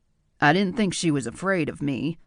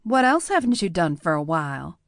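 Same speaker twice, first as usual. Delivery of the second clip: a little challenge; 2 semitones higher than usual. Acted. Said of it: "a little challenge in her voice".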